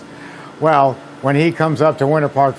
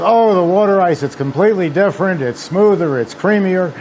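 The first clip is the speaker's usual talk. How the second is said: higher-pitched mock insistence; animated quoted protest, pitched up; insistent customer; 5 semitones higher than usual. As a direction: imitate customers gushing that theirs is different. Acting out customers insisting it differs.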